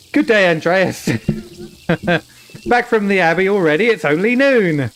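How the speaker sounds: put-on German accent breaking into giggles; attempted German accent. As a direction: try a German accent and crack up. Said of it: "why is it so hard to do a German accent".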